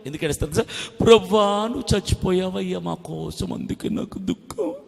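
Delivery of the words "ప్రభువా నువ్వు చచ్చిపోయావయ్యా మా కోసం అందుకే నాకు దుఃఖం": soft, breathy fake sobbing prayer; hammed-up hushed crying; mock weeping. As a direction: imitate a tearful worshipper, voice sinking away. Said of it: "అని ఏడుస్తారు".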